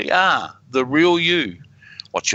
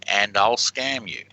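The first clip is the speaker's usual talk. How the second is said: slow and clear; 4 semitones lower, slower than usual. Shown as a demonstration. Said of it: "See if you can hear her say".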